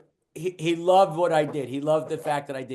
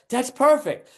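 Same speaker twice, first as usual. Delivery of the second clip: higher, louder pleased quip; mock delighted; 8 semitones higher, 4 dB louder than usual. Young comic to his boss, mock delighted. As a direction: play it as a thrilled eager young comic. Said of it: "I go".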